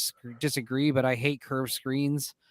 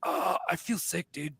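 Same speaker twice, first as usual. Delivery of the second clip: queasy murmur; 6 dB quieter than usual. Retold or imitated. Buddy Larry feeling ill.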